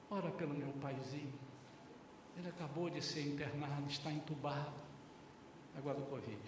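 subdued, halting retelling of a tearful request; retold near tears. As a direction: plead quietly, as if close to crying. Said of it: "quase chorando".

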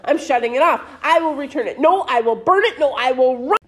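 overwrought melodramatic rant; dramatic. Acted. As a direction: play the tragic martyr. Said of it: "let me be dramatic".

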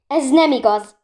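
loud, high flash of protest; indignant outburst. A narrator's reading. Girl denies the countess's theft accusation, snapping loudly. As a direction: burst out in sharp denial. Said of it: "csattant fel Bori".

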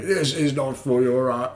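weird Dalek-like demon voice; Pinhead. Acted. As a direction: attempt a movie demon, stiff as a Dalek. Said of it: "You sound like a weird Dalek".

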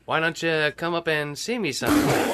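lightly voiced screen siren, barely disguised; half-hearted seductive come-on in a vintage film voice; Mae West impersonation. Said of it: "your famous Mae West impersonation".

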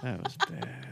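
low, soft put-on voice; character voice. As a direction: drop into a deep character voice. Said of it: "you gotta change your voice and create a character".

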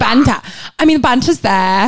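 put-on British accent. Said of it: "I think I do a good British accent".

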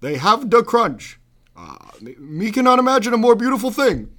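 Obama cadence reading Cookie Monster tweets. Pretend. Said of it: "dramatic reading of Cookie Monster's Twitter in my Obama impersonation".

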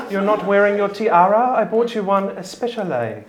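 high, laughing, fussing society mother; fussy mother. Acted. Mother scolding Tiffy about her tiara, high and fussing. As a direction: fret over the tiara, half laughing. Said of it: "she looks at you and says".

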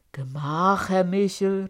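calling out. A narrator's reading. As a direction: hold him off with a call. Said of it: "rief Peter".

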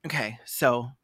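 mock a blustering American defendant; lawyer's patriotic speech. Defendant addressing the court about America, mock outraged patriot. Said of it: "would be like".

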